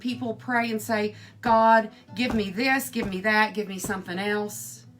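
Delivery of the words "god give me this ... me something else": mock pleading, a loud first word; demanding prayer. Imitating people praying for more and more, mildly demanding. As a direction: list off demands to God, lightly acted.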